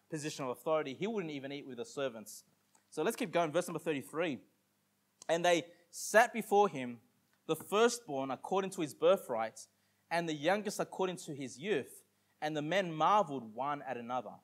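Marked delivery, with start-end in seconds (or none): 5.3-14.3 measured King James reading; scripture reading. Acted. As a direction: read the verse out to the congregation.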